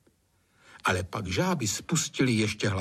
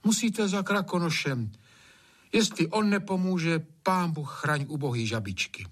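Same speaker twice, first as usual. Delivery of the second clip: put-on higher-pitched, earnest young servant's plea; raised, concerned appeal; urging maid; 7 semitones higher than usual. A narrator's reading. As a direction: press him to go for help. Maid urges gamekeeper, worried.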